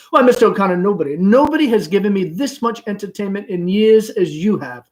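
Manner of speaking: mother flattering the gentleman caller; gushing. Acted. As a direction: pour on the charm. Amanda gushes.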